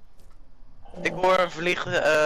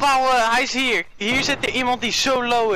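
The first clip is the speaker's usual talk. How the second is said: excited shout; 4 semitones higher than usual. Real, not acted. Spots a low enemy.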